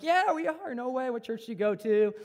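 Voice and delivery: high delighted reply, quickly eager; thrilled to meet a fellow believer; excited surprise. Retold or imitated. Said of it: "and I'm like".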